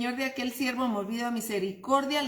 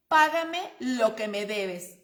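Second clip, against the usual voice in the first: demanding servant; 4 dB louder than usual. Retold or imitated. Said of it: "le ahogaba diciéndome".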